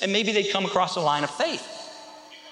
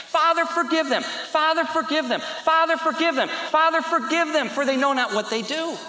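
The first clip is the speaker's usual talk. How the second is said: raised, insistent plea in prayer; acted pleading prayer; 6 semitones higher than usual. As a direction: pray it over and over, pitched high. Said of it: "he kept praying".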